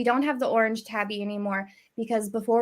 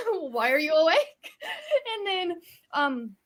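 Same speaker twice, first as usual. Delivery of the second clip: laughing; 5 semitones higher than usual. Real, not acted. Laughing while retelling.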